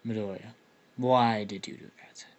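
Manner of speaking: lightly put-on dopey character voice; stupid voice. Storyteller voices a character questioning Midoriya, mildly stupid voice. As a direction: give him a mildly silly voice. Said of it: "gave him the stupidest voice ever".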